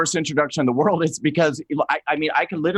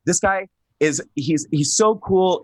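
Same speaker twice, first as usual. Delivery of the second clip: normal talking voice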